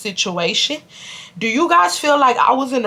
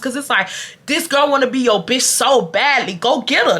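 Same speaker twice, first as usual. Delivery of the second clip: ordinary delivery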